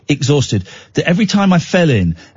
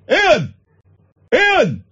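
put-on kids calling out; 11 semitones higher than usual. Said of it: "but it's, it's, it's".

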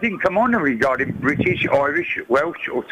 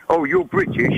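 much higher, mildly surprised quote; lightly voiced American man; 11 semitones higher than usual. Caller quoting an American to a Scottish man, lightly voiced. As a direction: lightly imitate a man addressing a stranger. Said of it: "this American man says to this man".

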